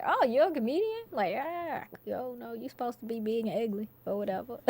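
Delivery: imitating doubters, voice lifted in disbelief; mock surprise. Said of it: "'Cause they're like".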